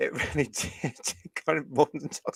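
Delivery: talking through laughter. Reporting that a sewing show beat Doctor Who's ratings, laughing while talking. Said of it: "I'm sorry for laughing".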